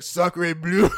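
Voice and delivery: mock French exclamation; French accent. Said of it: "Mario pops up and he's like".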